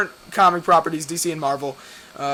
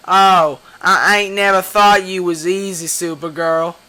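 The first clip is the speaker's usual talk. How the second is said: louder mock Southern redneck drawl; hammed-up redneck villain taunting; redneck threat; 7 dB louder, slower than usual. Comic villain threatening Supergirl, mock redneck accent. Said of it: "he sounds like he's, like, a redneck".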